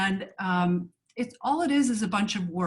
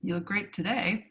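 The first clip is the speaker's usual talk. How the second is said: "today" carries the weight, rest softer; stress on today; 3 dB quieter than usual. Shown as a demonstration. Actress giving a fourth take, stress on "today". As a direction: land on "today". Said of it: "Or I could say".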